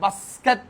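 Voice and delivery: "বাস্কেট" as bas, ket; "বাস্কেট" with a slight split after bas; two syllables. Shown as a demonstration. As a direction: say "বাস্কেট" in two measured beats. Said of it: "ভাঙবো, দুইটা".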